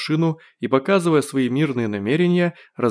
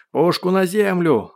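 high, slow commanding shout; yelled order; 6 semitones higher, 3 dB louder, slower than usual. A narrator's reading. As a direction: bellow it as an armed guard. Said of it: "заорал динамик". (громкий приказ)

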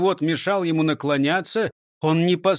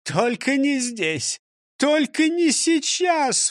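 slow, mock sob of a plea; whimpering; 10 semitones higher, slower than usual. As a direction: beg with a little whimper. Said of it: "всхлипнул директор Грильяж". (всхлипывая)

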